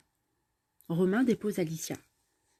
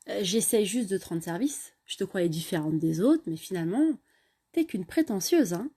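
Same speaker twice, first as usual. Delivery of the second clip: mildly irritated. Acted. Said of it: "Romain, agacé".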